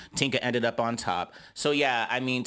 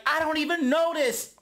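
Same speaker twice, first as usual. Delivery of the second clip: high dismissive imitation, much higher; mock Gretch voice. Gretchen repeating the slur, mocked in a high voice. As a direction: toss it off in a lightly mocking high voice. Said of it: "She's like".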